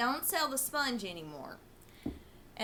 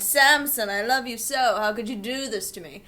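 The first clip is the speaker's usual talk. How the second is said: hammed-up heartbroken wail at the goat; mock anguished cry; 7 dB louder than usual. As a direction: cry out to the goat, half in jest.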